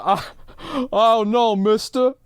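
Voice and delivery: half-hearted hammed-up student panic; caught-out panic. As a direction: squeak out a caught kid's dread. Retold again, Billy caught out.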